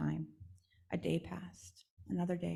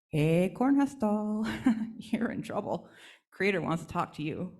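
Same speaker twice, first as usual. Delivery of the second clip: teasing Screech Owl; 4 dB louder than usual. Acted. Screech Owl teasing the doll that she's in trouble. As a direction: gloat a little as you deliver it.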